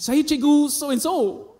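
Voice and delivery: a lightly voiced teacher giving her name, slowly; retelling his old teacher greeting him, high and slow; teacher introducing herself. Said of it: "She's like".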